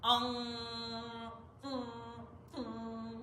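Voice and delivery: loud "Ong" sent up through the sinuses; nasal ong. Shown as a demonstration. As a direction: ring it in the nose. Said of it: "That's how you find out".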